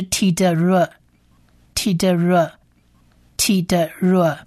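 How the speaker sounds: "T的热" as tee-duh-ruh, evenly separated; teacher sounding out "T的热" as ti-de-re; syllable blending demo. Shown as a demonstration. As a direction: repeat "T的热" carefully with uh vowels. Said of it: "发成呃或者是A的音".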